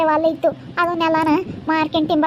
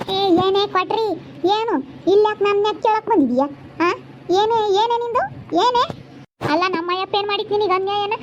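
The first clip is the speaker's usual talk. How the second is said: higher-pitched, challenging questions; indignant confrontation; 4 semitones higher than usual. Acted. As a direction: demand answers in a village quarrel. Acted quarrel over arrested relative.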